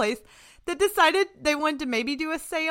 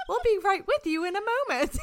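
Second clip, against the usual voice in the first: phone menu voice; 4 semitones higher, faster than usual. Pretend. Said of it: "It's like".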